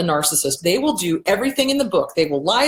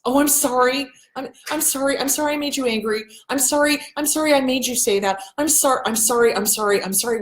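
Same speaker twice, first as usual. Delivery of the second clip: mock apologizing; 5 semitones higher than usual. Victim apologizing to abuser, acted.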